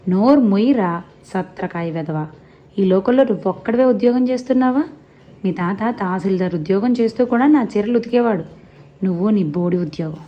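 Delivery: scolding granny. Acted. Grandma scolding her grandson.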